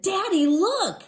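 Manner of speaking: put-on high, loud child calling daddy; little girl showing off her cart; excited little girl. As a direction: squeal it like a proud small kid. Child shows father her cart.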